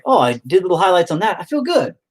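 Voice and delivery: high, loud pleased-with-myself voice; put-on high voice, chuffed to be finished; mock self-satisfied. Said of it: "now I'm like".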